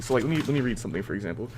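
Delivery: words cutting out over a bad line; call dropping out. Real, not acted. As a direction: voice breaking up on the call. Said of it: "You're cutting out".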